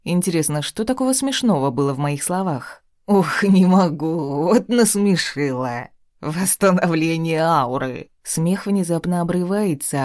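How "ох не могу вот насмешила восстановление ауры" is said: laughing through the words, slowly; mocking laugh while speaking; laughing king. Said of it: "Меня прерывает громкий смех". (сквозь громкий смех)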